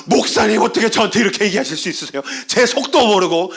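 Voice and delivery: high, rising mock protest from an upset congregant; hammed-up outraged complaining; indignant outburst. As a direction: act out making a scene to the pastor, fast and high. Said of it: "막 난리 칠 겁니다".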